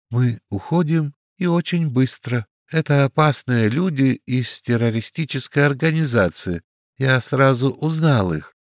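plain reading voice

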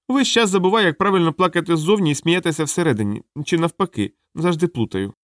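high-pitched, plaintive clown; sorry clown confessing confusion; muddled little clown. Acted. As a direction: fret in a high voice. Clown laments his confusion.

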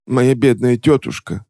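slow, high fake sobbing lament; mock sob. A narrator's reading. Witch fake-sobbing about her aunt to the clerk. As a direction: sob out the words for show. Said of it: "всхлипнула Ремора".

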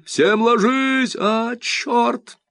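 high, loud, slow megaphone order; police megaphone, then a curse; megaphone yell. A narrator's reading. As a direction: drag the order out on the loudhailer. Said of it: "орёт мегафон".

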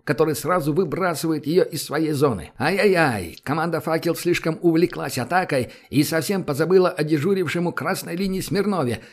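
brisk sports play-by-play; hockey commentary. Acted. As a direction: call the game like a TV commentator. Hockey commentator calling the match.

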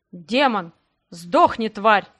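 a loud curse hurled mid-fight; furious yell. Acted. Fight, someone curses the demon.

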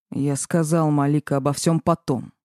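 plain reading voice

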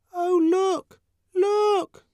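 put-on gawping kids pointing at something strange; scared twin children. A narrator's reading. Twins in the ward spotting Linda, high childish voice. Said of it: "They spoke in low, scared voices".

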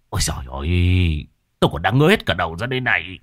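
halting, stumbling husband, lost for words; flustered stammering. Acted. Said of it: "Ông Trành lúng túng".

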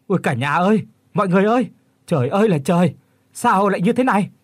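high, loud panicked wail to the household; terrified outcry. Acted. Old man finds horror at the door, terrified high loud cry. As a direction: cry out in sheer terror, voice cracking high. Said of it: "tiếng của lão Kiên kêu lên thất thanh".

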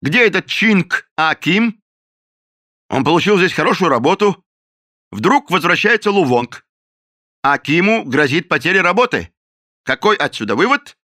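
the captain lays out his case against the cook; angry accusation. A narrator's reading. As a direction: hammer out the accusation.

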